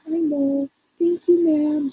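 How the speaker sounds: put-on high, sweet child voice; little girl answering the psychic politely. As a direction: thank her like a well-mannered child. Child spirit replying politely.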